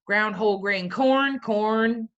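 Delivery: put-on Southern accent; playful, lightly Southern-accented label reading. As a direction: read it with a light Southern twang. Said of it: "I'm doing this Southern accent".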